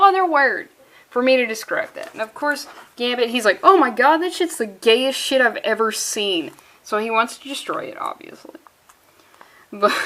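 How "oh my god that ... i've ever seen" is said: mock shocked outburst. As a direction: exclaim as an imitated appalled reaction. Acting out Gambit's shocked reaction.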